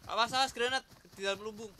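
grenade warning yell. Real, not acted. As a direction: shout the warning to the squad. Warning teammates about grenade. (teriakan peringatan granat)

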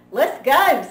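loud, bouncy "Let's go"; raring to leave; eager. Acted. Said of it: "said Froggy".

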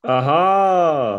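loud, triumphant aha; excited shout. Acted. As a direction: shout it like a eureka moment. Dramatic character exclamation.

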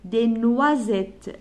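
slow model word. Shown as a demonstration.

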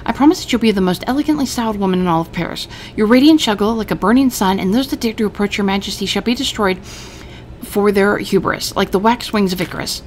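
lightly voiced, grandly grateful; a hint of over-the-top flattery; gushing tailor. Maurice thanking his new employer, hammed-up praise.

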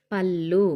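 "పళ్ళు" with the double L held long; doubled L sound. Shown as a demonstration. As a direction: lean on the joined L in "పళ్ళు". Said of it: "లా అని పలుకుతాం".

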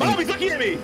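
put-on high, loud whiny kid complaint; whiny tattling little sibling. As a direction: tattle to Mom like a bratty kid. Sibling voiced tattling to Mom.

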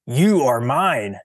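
slow, loud, possessive declaration; possessive claim. Acted. Fausto claiming the flower as his, slow and commanding. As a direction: stake a claim, slowly and firmly.

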